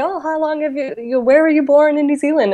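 high-pitched, re-enacted small-talk question; chatty curious question. Canadian newcomer recalls asking an Irish stranger, chatty curious question. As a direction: act out an innocent query, pitched high.

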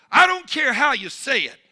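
loud, high shouted climax; preaching at full force. Acted. Preacher calling everyone to thank Almighty God, shouting. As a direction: lift the whole room to thanks.

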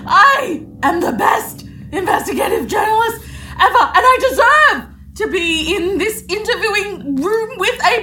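mean it this time. Acted. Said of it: "Say it again".

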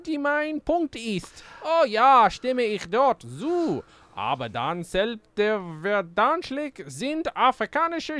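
high, slow, pompous guard voice; pompous castle guard. Acted. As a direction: drag it out like a haughty guard. Reads guard's German lines theatrically.

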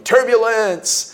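drawn-out high yell; a slow high yell of the program name. Retold or imitated. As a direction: stretch it out slowly like a shout while falling. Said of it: "I jumped off yelling".

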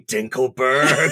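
slow, drawn-out laughing Dinkelberg; Timmy's dad. Retold or imitated. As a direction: grumble the rival's name slowly. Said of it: "Timmy's dad saying".

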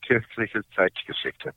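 Kirchliche Zeitgeschichte said in proper German, with the German consonants; German pronunciation. Shown as a demonstration. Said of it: "How do you say that?".

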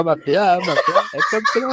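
high, fast put-on call; imitating the character. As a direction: mimic the guy calling the name. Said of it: "la cara del nota que decía".

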